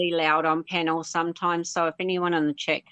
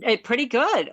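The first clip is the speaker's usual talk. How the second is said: New Zealand accent; 5 semitones higher, 3 dB louder than usual. Shown as a demonstration. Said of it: "with a New Zealand accent".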